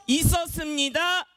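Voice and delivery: slow, drawn-out game call; announcing. Shown as a demonstration. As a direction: draw the phrase out as a projected cue. Demonstrating the game's announcing phrase. (길게 늘여 힘주어 외치듯)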